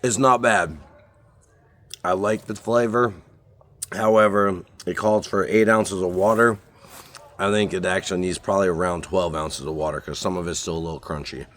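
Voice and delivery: talking with a mouth full; words round a bite of food. Real, not acted. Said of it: "Sorry, I didn't mean to talk with my mouth full".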